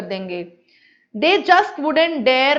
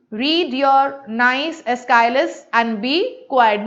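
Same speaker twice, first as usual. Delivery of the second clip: severe; much slower than usual. Acted. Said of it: "looking severe".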